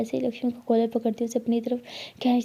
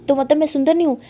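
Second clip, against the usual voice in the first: louder, miffed demand; mock anger; 3 semitones higher, 6 dB louder, faster than usual. A narrator's reading. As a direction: sulk like she's offended. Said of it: "लिली गुस्सा करते हुए कहती". (Lily नकली गुस्से में पूछती है)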